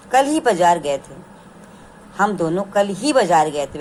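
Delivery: ही stressed after कल in "कल ही बाज़ार गए थे". Shown as a demonstration. Teacher reading example sentence, stressing ही. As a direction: press on ही to highlight कल. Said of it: "ये कल शब्द पर विशेष बल दे रहा है".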